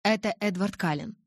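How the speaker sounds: friendly phone greeting with a veiled edge; mild, controlled friendliness; quite friendly. A narrator's reading. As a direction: open amiably, lightly voiced. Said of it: "начал он вполне дружелюбно".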